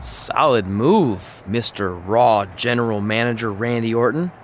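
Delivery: mocking politeness; mock formal. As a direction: lay the respect on sarcastically. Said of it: "Is that better?".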